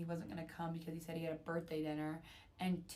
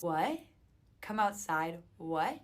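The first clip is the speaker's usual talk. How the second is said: incredulous; 6 dB louder, slower than usual. Real, not acted. Reacting to his creepy request.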